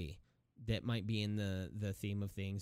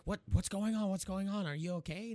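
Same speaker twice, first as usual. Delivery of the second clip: concerned John Lithgow; 9 semitones higher than usual. Retold or imitated. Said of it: "He's like".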